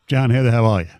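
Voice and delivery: a lightly disguised caller; barely masked caller greeting; mild put-on voice; Max voice. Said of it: "Is that your Max voice?".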